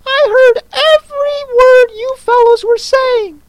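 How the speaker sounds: very high squeaky drowsy protest; hoarse feeble squirrel. Acted. Squirrel denying he dozed, high squeak. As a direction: squeak it out, half asleep.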